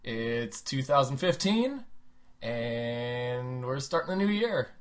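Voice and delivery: hoarse sick voice, slow; croaky from a cold. Real, not acted. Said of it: "my new sick voice".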